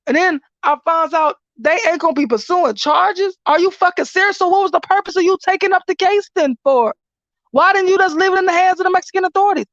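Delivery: high-pitched, indignant questioning; pissed off. Real, not acted. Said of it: "I'm so pissed about".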